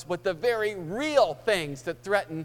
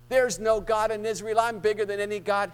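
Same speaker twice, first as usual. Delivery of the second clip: mocking taunt; 4 semitones higher, 5 dB louder than usual. Preacher voices Goliath's taunt.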